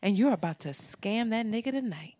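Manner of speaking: lightly spoofed affirmation voice; mock affirmations. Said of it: "make hood rat affirmations".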